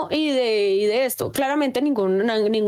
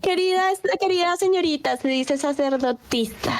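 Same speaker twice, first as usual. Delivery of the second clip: mock-exasperated correction; 3 semitones higher than usual. Host addressing an absent young lady, mock-exasperated correction. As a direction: correct her with exaggerated patience, stretching the last word. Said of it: "Perdón, me alteré".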